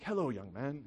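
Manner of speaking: put-on prim, lightly European-accented greeting; a hint of a formal European accent. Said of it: "in his European accent".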